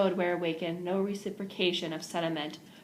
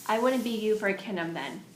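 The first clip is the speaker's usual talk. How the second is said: louder, emphatic declaration; 3 semitones higher, 4 dB louder than usual. Acted. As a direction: lay it down firmly. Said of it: "Catherine declared emphatically".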